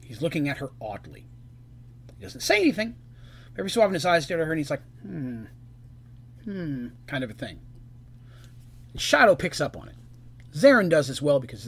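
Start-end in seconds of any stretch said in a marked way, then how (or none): 5.0-6.9 short, soft "hmm", mildly suspicious; wary little hmm; suspicious hum. Acted. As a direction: hum doubtfully under your breath. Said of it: "almost like a suspicious look".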